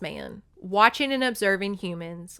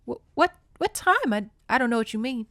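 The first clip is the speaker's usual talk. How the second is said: high, stammering, fast alarmed reply; startled stammer; 3 semitones higher, faster than usual. Acted. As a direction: stumble over the words, caught off guard. Her eyes widening, startled.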